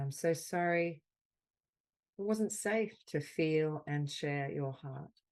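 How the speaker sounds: slow, gentle words of comfort, pausing between them; tender affirmation. Acted. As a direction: soothe a hurt friend, unhurried.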